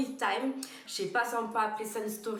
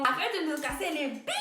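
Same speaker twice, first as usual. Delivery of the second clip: annoyed; 5 semitones higher than usual. Retold or imitated. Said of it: "J'ai dit".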